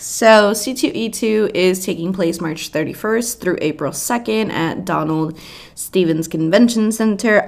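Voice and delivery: normal talking voice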